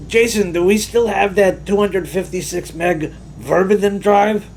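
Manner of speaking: lightly voiced grovelly coworker asking a dumb question; Delroy impression. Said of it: "That was really like his voice".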